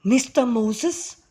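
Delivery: a touch of tearful appeal; tearful elderly man. A narrator's reading. Elderly man grabbing Moses's arm, lightly tearful. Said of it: "with tears in his eyes".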